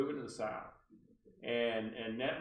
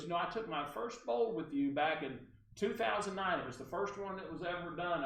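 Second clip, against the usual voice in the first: put-on caller's accent, higher voice; Barbara Delano; 6 semitones higher than usual. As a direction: reminisce as the caller, mimicking her accent. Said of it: "I have to use her accent".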